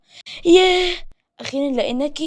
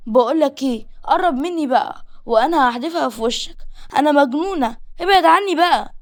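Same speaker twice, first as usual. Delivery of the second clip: angry threat; 5 semitones higher than usual. Acted. Girl threatens him with glass.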